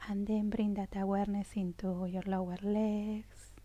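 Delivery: soft, unhurried body-scan voice; hushed, soothing meditation cues; guided meditation. Real, not acted. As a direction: guide attention gently, phrase by phrase.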